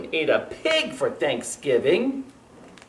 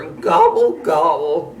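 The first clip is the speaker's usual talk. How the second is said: louder rumbling mock gobble; rumbled gobble; 7 dB louder, slower than usual. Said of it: "rumbled Turkey".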